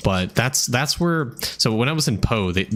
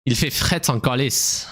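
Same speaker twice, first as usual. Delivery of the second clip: put-on slightly higher, joking Québécois accent; mock Canadian French; 4 semitones higher than usual. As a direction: toss out Québécois slang in its accent. Playfully showing off Canadian French.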